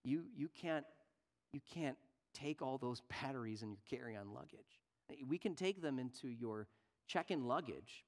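softly, gently explaining; calm, polite security agent. Retold or imitated. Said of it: "he said, very gently".

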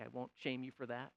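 ordinary delivery

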